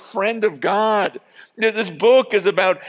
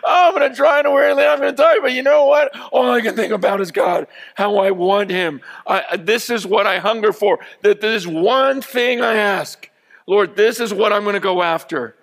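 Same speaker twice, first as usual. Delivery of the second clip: shouted desperate longing. Retold or imitated. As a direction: yell it like a starving addict. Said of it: "That's the way I see them talking about God".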